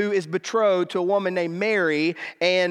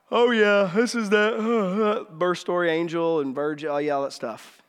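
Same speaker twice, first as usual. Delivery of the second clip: blasé reading. Acted. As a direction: sound like it's old, familiar news. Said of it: "Don't listen to it like that".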